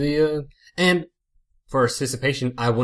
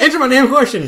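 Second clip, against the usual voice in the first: laughing; 11 semitones higher, 9 dB louder than usual. Real, not acted. Mock demand through laughter.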